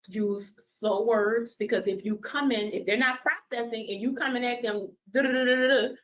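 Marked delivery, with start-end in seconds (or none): 0.1-1.6 drawn-out, slowed-down words; deliberately slow pacing. Shown as a demonstration. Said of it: "and to talk slow". 5.1-5.9 rapid-fire mock nagging babble; pushy, slightly raised chatter. Shown as a demonstration. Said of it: "raising your voice".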